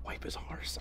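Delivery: a hushed, scandalised whisper; whispered aside. Real, not acted. Whispering to viewers about the friend's deed, scandalised. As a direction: lean in and whisper the gross bit.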